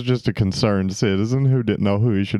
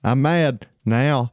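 slow wrestler impression; much slower than usual. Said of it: "You mad?".

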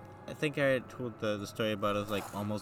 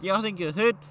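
high, loud, mocking challenge on hood; mock yell; 9 semitones higher, 8 dB louder than usual. Stranger in a Kia challenging the kids, high mock yell. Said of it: "And he's".

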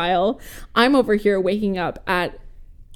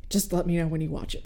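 softer, lower, quick polite request; courteous; 4 semitones lower, 9 dB quieter, faster than usual. Retold or imitated. Quoting a friend who avoids race spoilers, soft and courteous. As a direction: imitate a considerate friend stepping back. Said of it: "has gotten really courteous".

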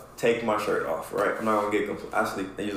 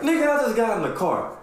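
put-on snapping at the kid; 13 semitones higher than usual. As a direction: bite the kid's head off. Snapping at nephew in car.

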